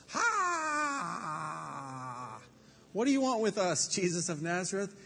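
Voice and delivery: high, loud shrieking demon voice; demon crying out. A narrator's reading. Possessed man screams at Jesus in the synagogue, shrieking high and loud. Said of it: "He cried out at the top of his voice".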